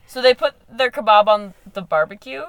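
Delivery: lightly put-on bad Australian accent; a half-hearted Aussie voice; hammed-up faint Australian accent. Shown as a demonstration. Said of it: "That's the worst accent I've ever done".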